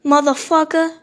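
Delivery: drawn-out, punchy taunt in an acted quote; lightly acted swaggering taunt; taunting returnees. Retelling how they pulled up on the boat, mock taunting. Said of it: "they were like".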